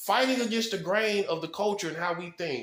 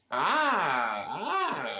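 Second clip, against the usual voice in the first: drawn-out "ah". Real, not acted. Drawn-out cry at own realisation.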